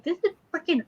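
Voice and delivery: high, excited fanboy gushing; imitating a fanboy losing it; imitated freaking out. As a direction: gush like a starstruck fan. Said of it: "he was kinda freaking out".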